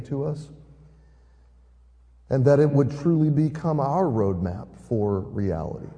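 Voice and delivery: low, measured praying voice; subdued public prayer; spoken prayer. Real, not acted. Leads a prayer.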